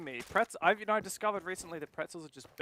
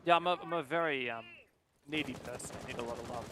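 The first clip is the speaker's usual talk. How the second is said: eating pretzels; 4 semitones lower, faster than usual. Real, not acted. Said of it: "Pardon me, I'm eating pretzels".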